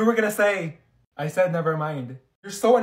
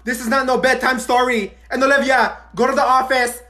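loud call; 7 semitones higher, 6 dB louder than usual. Acted. Loud wake-up call to all.

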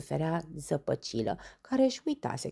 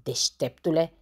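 mildly irritated, louder jab; outburst; 5 dB louder than usual. Acted. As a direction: snap at the questioner. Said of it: "izbucni Dondănel". (izbucnire iritată)

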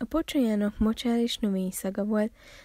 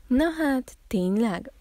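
high, loud, surprised frog; lively frog voice, starting high; croaking frog; 3 semitones higher, 6 dB louder than usual. A narrator's reading. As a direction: croak it out in amazement. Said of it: "brekegte Bella".

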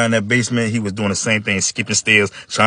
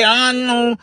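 high, very slow careful voice; slow brother; 10 semitones higher, slower than usual. Acted. John repeating the plan to brothers, high and slow. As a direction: spell out the plan slowly like a simple kid. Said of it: "He said".

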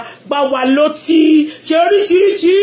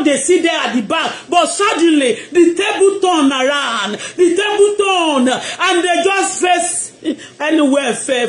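excited preaching; 3 semitones higher, slower than usual. Acted. Excited preaching about table turning.

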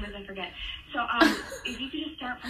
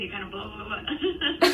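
imitating rushed babble; 5 dB louder than usual. Prankster mimicking a fast-talking telemarketer, mock babble. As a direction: babble "blah, blah" like a chatterbox. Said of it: "you're talking, like, really fast".

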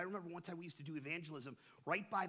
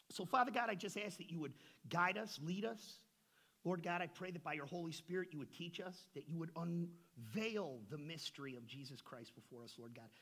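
fervent prayer. Acted. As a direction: pray over the congregation. Opening prayer before the study.

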